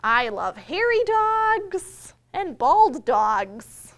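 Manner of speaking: slow, loud storybook reading; reading to children. A narrator's reading. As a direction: read each page out slowly to the little ones. Reading picture book aloud.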